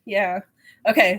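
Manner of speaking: ordinary talk, nothing marked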